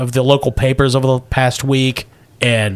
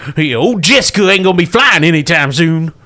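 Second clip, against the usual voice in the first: high twangy redneck pilot; 4 semitones higher than usual. Acted. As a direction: play the grizzled redneck pilot. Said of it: "you just wanna do the voice".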